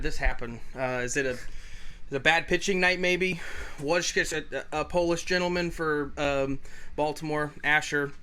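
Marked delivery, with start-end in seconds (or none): 2.1-8.1 slightly winded, catching breath. Real, not acted. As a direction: talk while short of breath. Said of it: "you sound like you're out of breath".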